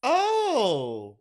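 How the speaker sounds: high, loud oh oh bitch; shocked outrage. Real, not acted. Scandalised shout to a friend over a queen copying Alaska. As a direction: gasp it out in scandalised disbelief.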